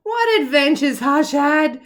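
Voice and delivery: breathy storyteller whisper. Acted. Reading to kids, whispering the adventure. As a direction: hush it like a secret. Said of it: "whispered story line".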